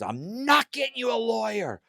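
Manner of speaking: indignant Becky. Retold or imitated. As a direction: refuse him in a high, half-laughing voice. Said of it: "She goes".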